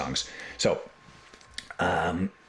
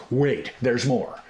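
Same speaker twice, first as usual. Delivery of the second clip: mock commercial pitch; 3 semitones higher, slower than usual. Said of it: "It's like a K-Tel commercial".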